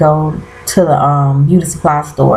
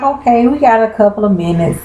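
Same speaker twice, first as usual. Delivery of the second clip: excited; 4 semitones higher, faster than usual. Retold or imitated. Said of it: "I'm like".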